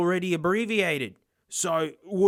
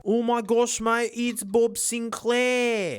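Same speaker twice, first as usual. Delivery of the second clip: higher, drawn-out gushing; mock thrilled; 5 semitones higher, much slower than usual. Vlogger discovering a music player branded with a DJ's name, mock thrilled. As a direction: gush and stretch out the name.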